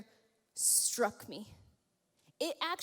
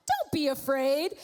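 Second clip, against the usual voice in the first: calm reply; 5 dB louder than usual. Pretend. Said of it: "I just imagine him like".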